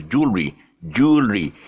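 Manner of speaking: "jewelry" squeezed to JOOL-ree. Shown as a demonstration. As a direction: run "jewelry" into two syllables, no W. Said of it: "without a W".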